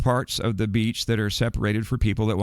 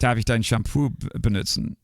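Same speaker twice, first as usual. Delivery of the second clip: German. Retold or imitated. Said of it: "what did that sound like in German".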